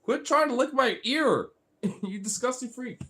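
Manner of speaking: high-pitched playful scolding; squealed mock disgust. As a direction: tell the pet off in a put-on high voice. Mock scolding licking pet.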